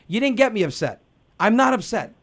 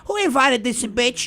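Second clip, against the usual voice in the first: slow, laughing catty aunt; catty aside. Retold or imitated. Aunt behind the guest's back, slow and catty. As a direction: sneer it once the guest is gone. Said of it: "They walk away".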